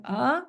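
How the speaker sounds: uh as a bare unstressed vowel; schwa sound. Shown as a demonstration. Teacher showing the first syllable's vowel, schwa sound. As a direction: sound out uh on its own. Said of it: "it's a schwa".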